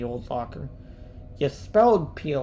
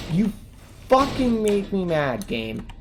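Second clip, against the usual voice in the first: angry outburst; 4 semitones higher than usual. Real, not acted. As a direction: vent real anger, hitting fucking hard. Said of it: "I'm actually mad now".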